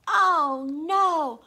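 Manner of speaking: loud, high "oh no"; alarmed. Acted. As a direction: sound alarmed for the kids. Dinosaur arrives.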